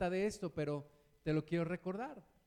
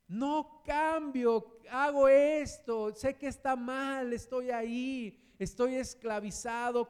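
higher, louder and slow; pleading confession; 3 semitones higher, 4 dB louder, slower than usual. Acted. Sinner confessing his bondage, slow, loud and desperate. Preacher voicing struggling sinner.

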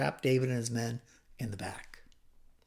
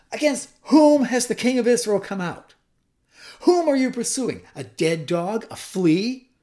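forceful, raised-voice declaration of innocence; loud calling out; 3 semitones higher, 7 dB louder than usual. Acted. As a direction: make your case loudly across a distance. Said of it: "called out in a loud voice".

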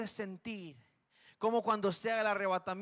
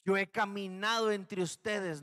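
steady, measured divine statement, stress on "caminado"; a calm announcement from God. Acted. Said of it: "la voz de Dios que dijo".

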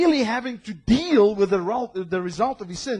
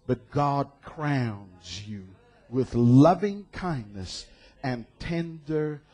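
tender reading; 6 semitones lower, slower than usual. Acted.

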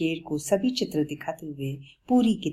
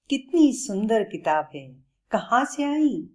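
higher, eager admiring tone; delighted; 6 semitones higher than usual. Acted. Bablu admires the lion's book, delighted. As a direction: marvel at the pretty book.

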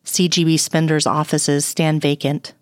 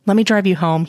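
spat out. Acted. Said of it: "he spits".

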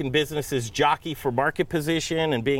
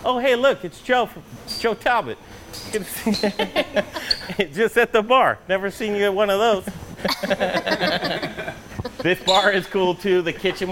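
excited; 7 semitones higher than usual. Real, not acted. Spots a friend at the bar.

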